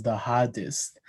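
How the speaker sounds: hardest with no R, New Zealand style; New Zealand accent. Shown as a demonstration. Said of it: "he says".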